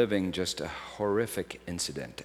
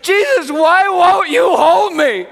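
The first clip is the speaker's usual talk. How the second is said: a much higher, much louder anguished shout; reliving a friend's sobbing outcry; anguished cry out; 16 dB louder, slower than usual. Retold or imitated. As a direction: cry out to Jesus with everything. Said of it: "she just, like, sobbed. She cried out".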